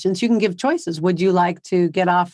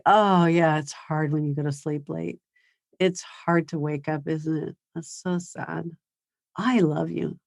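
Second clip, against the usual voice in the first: put-on quiet, gentle sympathy for a grumpy kid; softly, a parent soothing and unbothered; soft empathy; 5 dB quieter, slower than usual. Shown as a demonstration. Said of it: "The other thing you can use is empathy".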